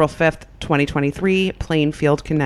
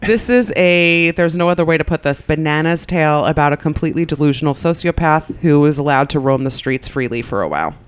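radio host voice. Acted. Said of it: "Sounded like an A M radio host".

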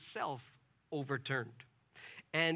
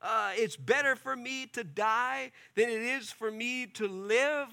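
angry despairing plea; 5 semitones higher than usual. Retold or imitated. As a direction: drag it out, fed up and defeated. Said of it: "he's so angry, he's saying".

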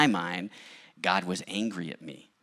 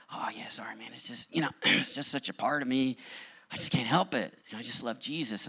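whispered, apologetic, a little higher; sheepish hushed apology; 6 semitones higher than usual. Retold or imitated. Coworker Nate apologizing for bringing up Jesus, in a sheepish hush. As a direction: half-whisper it like a shy confession you can't help.

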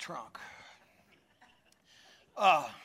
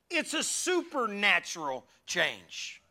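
slow statement; 3 semitones higher, slower than usual. Shown as a demonstration. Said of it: "Say that with me".

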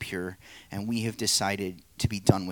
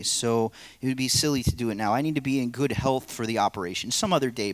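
the man, stalling; 3 semitones higher, 3 dB louder, faster than usual. Acted. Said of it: "play the narrator and three parts".

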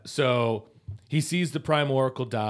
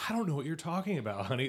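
quick, higher-pitched mock innocence; playing dumb; 4 semitones higher, 3 dB quieter, faster than usual. Teasing a husband who'd deny being psychic to his wife, playing dumb. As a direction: play dumb in a hurried, higher voice. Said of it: "you would still play dumb".

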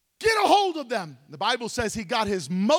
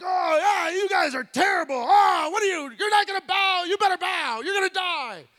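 hammed-up furious king, shouted and pitched higher; a puffed-up king yelling threats; raging king; 5 semitones higher than usual. The king yells at the three Hebrews who won't bow, in a mock furious shout. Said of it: "this king was like".

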